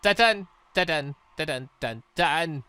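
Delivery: ordinary talk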